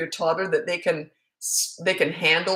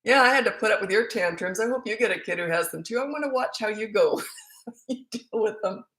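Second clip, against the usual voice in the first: teasing grandma; 4 semitones higher than usual. Retold or imitated. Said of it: "other grandmas say the same thing".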